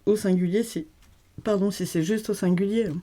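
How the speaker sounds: talking through hiccups; suppressing hiccups. Real, not acted. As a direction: hiccups held back between words. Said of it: "j'ai le hoquet".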